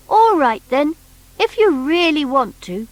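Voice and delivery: put-on high, bright little toy boy; Noddy's voice. Noddy asking the strange creature, high boyish voice. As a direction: pitch up as young Noddy.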